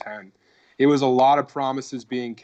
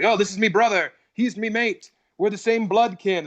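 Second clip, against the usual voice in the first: higher, hammed-up fake Scottish accent; 8 semitones higher than usual. Mimicking the fake Scotsman introducing his brother, hammed-up Scottish accent. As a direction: ham up the comic's phony Scots brogue. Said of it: "he was like".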